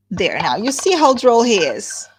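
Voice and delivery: loud, bright gushing; gushing delight. Acted. Wife covering for her rude husband. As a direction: laugh it off brightly.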